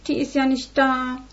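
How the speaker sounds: höher, gespielt kläglich; jammere, als wärst du verlassen; kläglich jammernd. Acted. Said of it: "jammerte Johanna kläglich". (Johanna jammert dem Vater kläglich vor)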